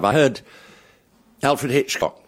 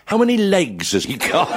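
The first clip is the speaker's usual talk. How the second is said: whispered prompt; 11 semitones higher than usual. Retold or imitated. Eric Flynn's whispered prompt.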